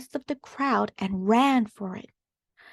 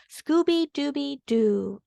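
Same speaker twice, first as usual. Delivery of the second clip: high, slow cheerful dog voice; Scooby dog voice; 4 semitones higher than usual. Acted. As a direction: sing out the catchphrase like a cartoon dog. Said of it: "exclaimed Scooby".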